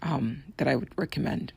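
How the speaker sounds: rough, raspy throat. Real, not acted. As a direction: talk through a scratchy, raspy voice. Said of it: "listen to my raspy voice".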